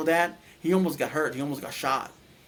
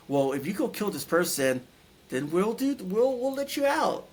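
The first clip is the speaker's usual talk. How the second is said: sinister thing luring the trucker to kill; evil tempter; 5 semitones higher than usual. Retold or imitated. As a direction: tempt him like something not human.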